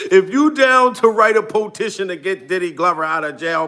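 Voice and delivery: ordinary talk, nothing marked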